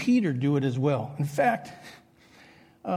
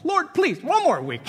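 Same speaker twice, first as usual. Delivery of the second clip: mock whiny plea; 10 semitones higher, 4 dB louder than usual. Begging for one more week.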